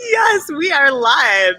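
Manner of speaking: slow, high, loud joyful shout; excited cry. Real, not acted. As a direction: announce it like a celebration. Excited on-air greeting.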